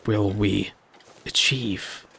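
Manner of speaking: slow, dramatic trailer voice, fading to a whisper; mock movie-trailer narration. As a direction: announce it like an epic trailer.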